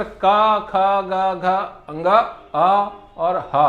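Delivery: each letter drawn out slowly from the throat, with pauses; throat sounds demo. Shown as a demonstration. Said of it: "इसका उच्चारण करते हैं तो यहाँ हमें आभास होता है कि ये कंठ से उच्चारित है". (कंठ से धीरे-धीरे उच्चारण)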